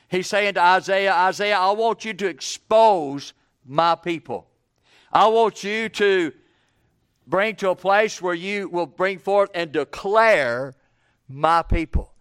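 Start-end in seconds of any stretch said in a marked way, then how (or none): 1.1-12.1 mild commanding God voice, louder. Acted. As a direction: give the prophet God's order.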